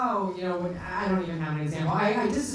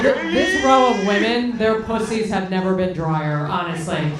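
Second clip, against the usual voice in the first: loud slow jab; 6 dB louder, slower than usual. Real, not acted. Loud comic jab at a contestant.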